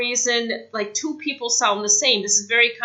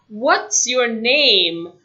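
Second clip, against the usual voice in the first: rude-sounding question; 4 dB louder, much slower than usual. Shown as a demonstration. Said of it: "could be considered a little bit rude".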